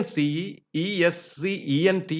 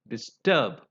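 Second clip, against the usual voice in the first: "disturb" stressed on -TURB; stress on last syllable; 4 semitones lower than usual. Shown as a demonstration. Teacher repeating examples for learners, stress on last syllable. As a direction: land on the second syllable of "disturb". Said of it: "stressed on the last syllable".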